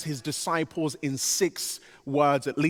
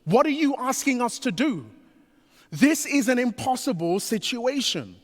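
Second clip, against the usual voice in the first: higher, pleading voice of worried disciples; exasperated disciples; 7 semitones higher than usual. Retold or imitated. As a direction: play the cornered disciples throwing up their hands. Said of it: "They're like".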